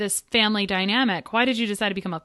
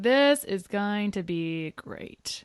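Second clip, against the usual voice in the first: slow, softer, dreamy newlywed optimism; glassy-eyed newlywed; 4 dB quieter, much slower than usual. Pretend. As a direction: draw it out like starry-eyed newlyweds. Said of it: "like, all glassy-eyed".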